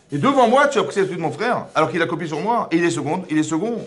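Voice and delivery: loud, high, indignant protest; hammed-up wounded older brother shouting; Cain outraged. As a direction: rail at God for the public slight. Cain protests loudly to Hachem.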